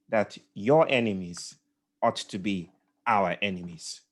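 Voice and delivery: lightly voiced elder statesman, measured and grave; a hint of a calm, weighty leader answering a challenge; understated statesman gravitas, deliberate pauses; epic Mandela voice. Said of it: "epic Mandela voice".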